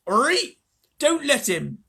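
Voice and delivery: high, loud, urgent aside; urgent dwarf. A narrator's reading. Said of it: "whispered Trumpkin to Peter".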